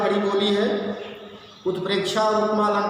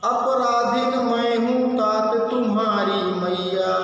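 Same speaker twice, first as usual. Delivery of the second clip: slow, drawn-out chanted verse; verse recitation; slower than usual. Acted. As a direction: recite the poem in measured sing-song, stretching line ends. (धीमे, लयबद्ध स्वर में काव्य-पाठ)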